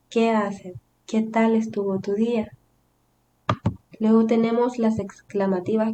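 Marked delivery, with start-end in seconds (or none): 0.1-2.5 "¿Qué haces? ¿Qué tal estuvo tu día?" with question intonation; entonación de pregunta. Shown as a demonstration. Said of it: "damos la entonación de pregunta". ("¿Qué haces? ¿Qué tal estuvo tu día?" con tono de pregunta)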